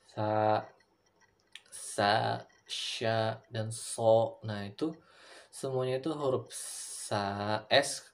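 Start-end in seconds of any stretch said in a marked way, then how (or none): 0.1-4.4 sa, sa, sya, so said one by one, each Arabic letter sound kept distinct. Shown as a demonstration. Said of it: "Kayak huruf". (mengucapkan huruf Arab sa, sa, sya, so satu per satu dengan jelas)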